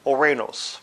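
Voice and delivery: "Ouranos" said oh-RAY-nohs; demonstrated pronunciation. Shown as a demonstration. Teacher showing the Greek word, "Ouranos" pronounced oh-RAY-nohs. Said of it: "and it's pronounced".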